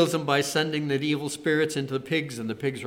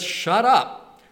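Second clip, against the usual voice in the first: startled, higher and louder command; indignant order, pitched up; mildly indignant; 7 semitones higher, 6 dB louder than usual. Acted. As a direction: act out an indignant rebuke. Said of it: "Jesus sounds a little bit indignant too".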